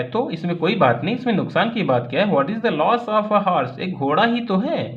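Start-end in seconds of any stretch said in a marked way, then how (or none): 2.3-4.9 irritated shout. Acted. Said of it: "बहुत तेज़ी से चिल्लाए".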